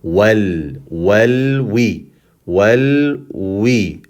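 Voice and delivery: held l closing each Wal, then we; syllable by syllable, linger on the l of Wal; pronounced lam. Shown as a demonstration. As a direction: Wal and we as separate drawn syllables. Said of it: "we are pronouncing this lam".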